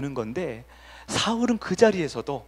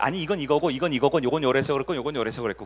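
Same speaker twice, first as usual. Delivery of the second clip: lame excuse; 2 semitones lower, faster than usual. Retold or imitated. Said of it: "근데 거기서 뭐라고 그래?".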